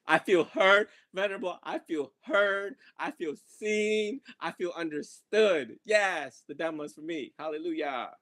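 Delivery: high, slow, starry-eyed gratitude; mock gushing gratitude. Teacher playfully voicing Christine, slow and high. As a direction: ham up being finally understood. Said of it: "She's like".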